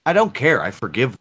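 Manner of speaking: choppy, breaking-up call audio; call dropping out. Real, not acted. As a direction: voice cutting in and out on a bad line. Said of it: "I don't know why you're breaking up".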